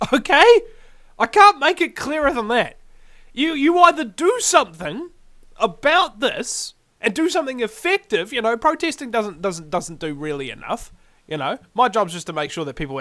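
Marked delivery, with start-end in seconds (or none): 0.1-8.3 urgent shouting warning. Real, not acted. Warning New Zealanders they will die, loud. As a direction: shout the warning to wake them up.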